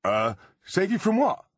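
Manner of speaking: high, puzzled goblin voice; confused high creature voice. A narrator's reading.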